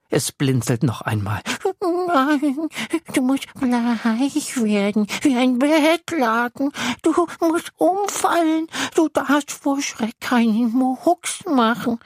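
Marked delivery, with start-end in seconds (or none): 1.8-12.0 high, slow insistent monster voice; the little monster laying down the rules; bossy little monster. Acted. Monster instructs the boy. (kleines Ungeheuer, hoch und bestimmend)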